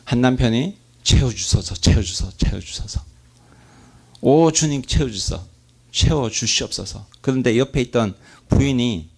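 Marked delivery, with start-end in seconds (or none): 1.0-7.1 mock fervent prayer. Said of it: "이렇게 기도하는 겁니다".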